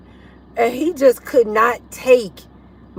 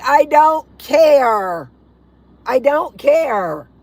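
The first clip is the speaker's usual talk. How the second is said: retold defiant retort; 2 semitones higher, 4 dB louder, much slower than usual.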